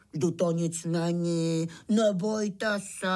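slow, drawn-out soothing; reassuring. Acted. Pytlík coaxing scared crickets toward the cart, reassuring. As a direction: gently talk away their fear.

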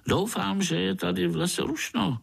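high, quick, merry mosquito voice; a cocky insect teasing the little one; grinning mosquito. A narrator's reading. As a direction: mosquito from Komárno grinning at Pája. Mosquito talks.

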